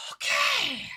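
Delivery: high, loud burst of anger; frustrated outburst. Real, not acted. Mad fan venting to viewers, high loud outburst. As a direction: let the held-back scream slip out on one word.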